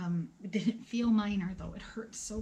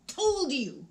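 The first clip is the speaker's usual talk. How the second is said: rising, louder exasperated i-told-you; hammed-up indignant told-you-so, pitched higher; 9 semitones higher, 5 dB louder, much slower than usual. Telling the doctors she was right all along, mock indignant and louder.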